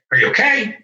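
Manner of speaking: "Are you okay?" tossed off quickly, stress on "okay"; a throwaway "Are you okay?" that moves on; offhand question. Shown as a demonstration. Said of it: "most people say".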